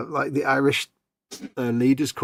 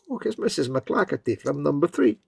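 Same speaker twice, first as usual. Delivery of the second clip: mock Scottish; 2 semitones higher than usual. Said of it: "the most Scottish name ever".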